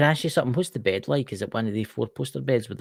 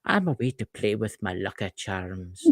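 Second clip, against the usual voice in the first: mock Irish accent; 3 semitones lower, 4 dB quieter than usual. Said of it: "she likes it when I talk Irish".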